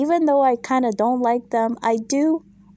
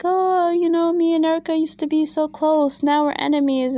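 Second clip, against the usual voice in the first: higher-pitched imitation of tearful complaining; mock crying; 5 semitones higher than usual. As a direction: imitate her weepy lament, drawing out the oh. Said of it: "Sutton's crying, like".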